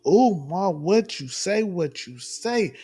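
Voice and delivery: drawn-out call for Doctor Umar's attention. Real, not acted. Calling out to the host.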